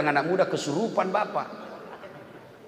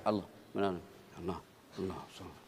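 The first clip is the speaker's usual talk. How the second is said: low, softer and softer repeated Allah; fading dhikr; 10 semitones lower, 13 dB quieter than usual. Shown as a demonstration. Preacher showing dhikr fading to nothing. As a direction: let each Allah fade away.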